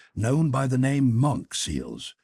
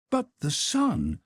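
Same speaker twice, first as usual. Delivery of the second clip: higher, deferential manservant voice; Conseil the servant; 8 semitones higher than usual. Acted. Servant Conseil respectfully objects to his master, in a higher voice. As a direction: play the polite valet objecting gently.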